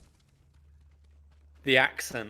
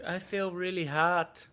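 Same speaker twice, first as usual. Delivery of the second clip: slow, high, louder feverish zombie groan; zombie friend; 7 semitones higher, 6 dB louder, much slower than usual. Retold or imitated. Mimicking a bitten friend, slow, high and louder. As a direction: drag it out like someone turning. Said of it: "He's like".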